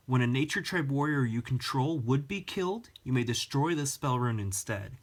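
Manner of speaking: short of breath while reading; winded, pushing through the words; running out of air. Real, not acted. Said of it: "I'm running out of breath".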